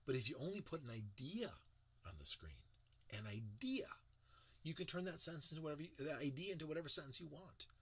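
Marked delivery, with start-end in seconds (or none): 3.1-3.8 whispered emphasis. Shown as a demonstration. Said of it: "stressing the word idea".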